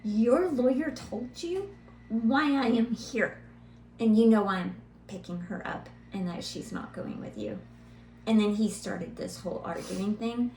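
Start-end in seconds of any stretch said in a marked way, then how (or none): 0.0-7.6 firm retort. Retold or imitated. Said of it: "I was like".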